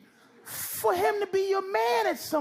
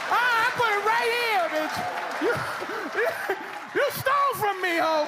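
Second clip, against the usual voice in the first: mock accusation; 3 semitones higher than usual. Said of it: "I'd be like".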